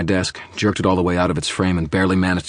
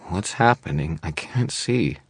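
thin, strained, rising plea; weak and frightened; thready voice; slower than usual. A narrator's reading. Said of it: "her voice thready".

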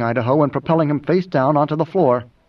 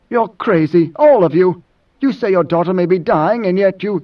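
higher-pitched, heated disbelief; agitated accusation; 5 semitones higher, 4 dB louder than usual. Acted. Idaho berates Moneo over his dying daughter, agitated. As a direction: accuse him with rising agitation.

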